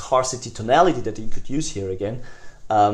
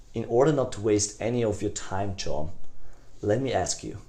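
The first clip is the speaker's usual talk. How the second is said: gentle, softer, sincere; caring tonality; 3 semitones lower, 4 dB quieter than usual. Shown as a demonstration. Salesman reassuring busy prospect John, gentle and caring. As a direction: reassure him you respect his time. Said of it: "the really caring tonality".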